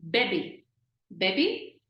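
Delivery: "bebe" as light, short "bay-bay"; both vowels of "bebe" a short ay; slight A sound. Shown as a demonstration. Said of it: "just pronouncing a slight A sound".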